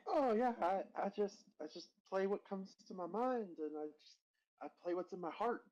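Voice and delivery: high, airy spacey artist; dreamy musician voice. Acted. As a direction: answer like a dreamy free spirit. The speaker answers in character voice.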